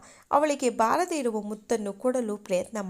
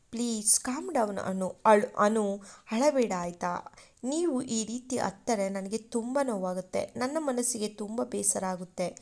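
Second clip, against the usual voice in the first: soft consoling; 3 dB quieter than usual. Acted. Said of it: "ಸಮಾಧಾನ ಮಾಡುವ ಪ್ರಯತ್ನವನ್ನು".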